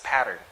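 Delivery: pattern with the T turned into a light D; American flap in pattern; American glided T. Shown as a demonstration. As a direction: say "pattern" as "padern". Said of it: "They would glide the sound".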